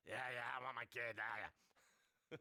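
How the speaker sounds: a lightly voiced lawyer, casual and pleading; mild lawyer impression. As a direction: play the lawyer, half-mocking. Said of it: "the lawyer talking like this".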